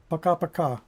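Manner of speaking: Пока-пока said as pa-ka-PA-ka, stress on the last syllable; пока-пока по-русски; Russian bye-bye. Shown as a demonstration. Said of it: "That's how you say bye".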